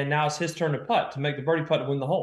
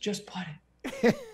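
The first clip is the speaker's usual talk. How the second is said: put-on whisper, higher and quieter; 6 semitones higher, 5 dB quieter than usual. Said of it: "I hear this whisper".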